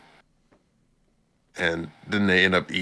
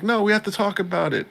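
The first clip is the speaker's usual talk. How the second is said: quoting the others; 13 semitones higher, faster than usual. Retold or imitated. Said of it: "they're like".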